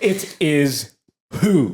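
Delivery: high bratty disbelief; Joffrey. Acted. Boy king asking mother about father, high voice. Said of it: "that boy does not know who his daddy is".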